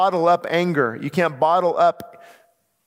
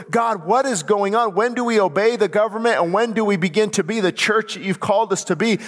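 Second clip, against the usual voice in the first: crying out; 2 semitones higher than usual. Retold or imitated. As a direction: plead with God, voice slightly lifted. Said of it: "And I'm crying out saying".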